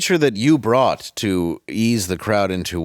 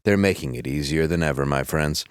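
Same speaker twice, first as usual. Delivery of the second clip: hammed-up sponsor pitch; ad read; 2 semitones lower than usual. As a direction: sell it like a cheesy radio ad. Reads sponsor ad copy.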